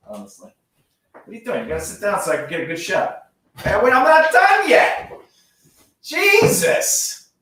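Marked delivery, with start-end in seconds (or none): 3.6-7.3 high startled outburst. Real, not acted. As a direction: yelp in surprise. Dog interrupts setup.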